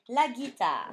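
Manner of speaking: la guitare, slow and clear; 「la guitare」を区切ってはっきり; dictation word. Shown as a demonstration.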